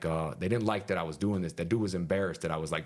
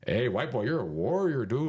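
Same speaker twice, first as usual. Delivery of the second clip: put-on higher-pitched, amateurish Mexican accent; bad Mexican accent; 5 semitones higher than usual. Mexican cellmate hailing the white boy, in a shaky attempt at a Mexican accent. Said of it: "I'm not really good at accent".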